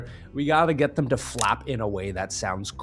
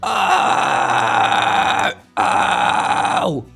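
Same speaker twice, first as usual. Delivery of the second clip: fry scream; 4 semitones higher, 6 dB louder than usual. Shown as a demonstration. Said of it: "doing a fry scream".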